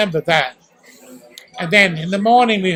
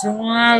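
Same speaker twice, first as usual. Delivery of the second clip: a short mock siren wail; siren imitation; 3 semitones higher than usual. Telling how the sirens sounded at night, mock wail. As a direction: hum out the siren call. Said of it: "when we heard this".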